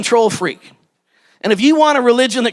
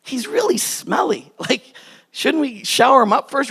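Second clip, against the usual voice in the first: doubting servant; 3 semitones higher, 3 dB quieter than usual. Retold or imitated. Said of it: "you can imagine the servants going".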